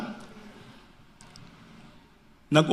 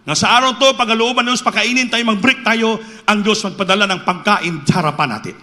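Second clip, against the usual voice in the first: fervent prayer; 3 semitones higher than usual. Retold or imitated. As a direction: pray aloud with rising fervor. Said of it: "nalangin nila".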